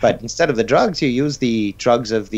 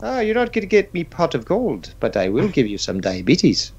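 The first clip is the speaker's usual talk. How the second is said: leprechaun; 3 semitones higher than usual. Pretend. Leprechaun selling cereal.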